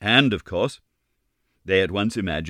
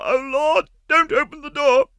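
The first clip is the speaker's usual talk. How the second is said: higher, louder panicked begging; desperate plea; 6 dB louder than usual. A narrator's reading. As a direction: plead in rising panic. Meg begs Sorelli.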